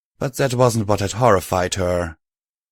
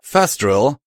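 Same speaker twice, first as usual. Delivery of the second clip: incredulous; 5 semitones higher, 5 dB louder than usual. A narrator's reading. Bug questions incredulously.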